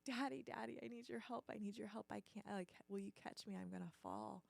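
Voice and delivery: a touch of urgency, repeated appeals; child pleading for help. Retold or imitated. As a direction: lightly act a kid calling for Daddy. Child calling to dad for help.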